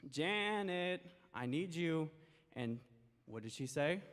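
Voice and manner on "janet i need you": higher calling out of the name; mother calling. Acted. Mother calling her daughter again, calling out. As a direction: call her from inside the house. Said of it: "her mom said".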